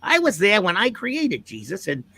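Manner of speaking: swooping, self-mythologizing showman; grand old comic-book huckster, pitch rolling up and down; boastful pitchman taking credit for everything; Stan Lee. Acted. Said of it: "Stan Lee, I present Resurrection".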